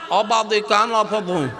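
slow, mumbled toothless imitation; toothless speaker. Shown as a demonstration. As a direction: garble the words as if no teeth. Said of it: "দাঁত নাই".

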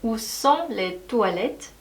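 very slow, every word clear; slow drill. Shown as a demonstration. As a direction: spell it out slowly for learners. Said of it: "반드시 알고 계셔야 하는 표현". (천천히 또박또박)

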